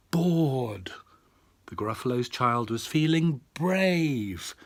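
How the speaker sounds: put-on lively read-aloud to a child; storyteller voice for a little girl; bedtime story reading. A narrator's reading. Dad reads bedtime story.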